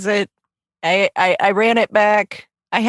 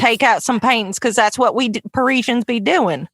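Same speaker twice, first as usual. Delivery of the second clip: Southern farmer passing himself off as Parisian. Acted. Host imitating Mike's fake Frenchman, Southern farmer accent. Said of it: "still doing his Southern farmer".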